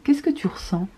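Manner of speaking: hushed unvoiced question; whispering. Real, not acted. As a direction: whisper it close. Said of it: "whispered question". (question chuchotée)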